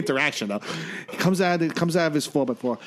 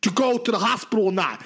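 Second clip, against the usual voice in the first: higher-pitched, fed-up retelling; frustrated; 4 semitones higher than usual. Retold or imitated. Ambulance guy pressing the patient to decide, frustrated. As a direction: imitate an exasperated medic demanding an answer. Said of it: "gets frustrated".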